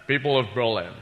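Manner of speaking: lightly voiced Connery Scottish accent doing Kennedy; a hint of Connery's Scottish lisp on the speech; Sean Connery as Kennedy. Comic doing Sean Connery reading Kennedy's Berlin speech, Scottish accent. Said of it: "Sean Connery doing President Kennedy".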